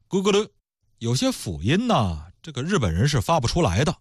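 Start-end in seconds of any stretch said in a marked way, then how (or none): 0.1-0.5 put-on Japanese accent. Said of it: "日本人怎么说呢".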